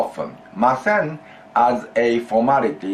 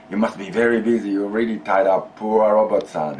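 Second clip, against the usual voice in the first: sympathetic remark. Retold or imitated. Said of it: "I might say to Robert-san".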